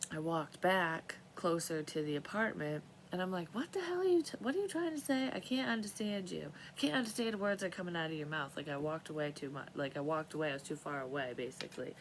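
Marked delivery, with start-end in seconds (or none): 3.5-8.6 frustrated call. Retold or imitated. Shouting up at window, frustrated.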